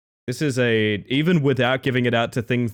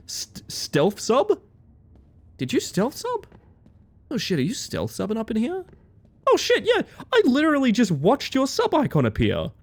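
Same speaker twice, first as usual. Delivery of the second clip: excited high; 11 semitones higher than usual. Real, not acted. Catching a viewer's stealth sub.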